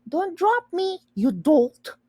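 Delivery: high, squeaky little cry; squealing. A narrator's reading. Tiny brother squealing at Charles to not drop him, squeaky. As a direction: squeal it like a tiny scared creature.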